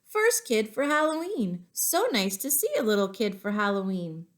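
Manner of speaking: put-on lady at door thrilled to see a child; cheerful lady. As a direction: welcome the first kid sweetly. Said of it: "A lady opened up the door and said".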